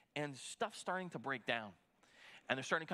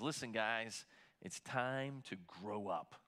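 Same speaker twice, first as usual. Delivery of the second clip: firm rebuke; 4 semitones lower, 3 dB quieter, slower than usual. Retold or imitated. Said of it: "that's a little bit harsh".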